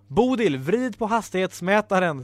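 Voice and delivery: mild storybook shout; urgent shout. Acted. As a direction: call out to the driver. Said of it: "skrek Ibelina".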